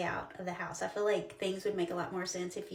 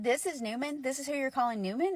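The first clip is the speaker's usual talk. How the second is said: raised, questioning disbelief; incredulous question; 4 semitones higher than usual. Retold or imitated. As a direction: ask it higher, double-checking in surprise. Mother questions child in disbelief.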